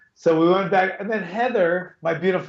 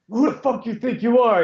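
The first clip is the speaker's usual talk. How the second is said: mock-indignant challenge, pitched up; indignant attitude; 7 semitones higher than usual. Girl confronting him at the bathroom door, indignant attitude. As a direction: imitate her with attitude, voice raised in pitch. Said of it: "like, an attitude".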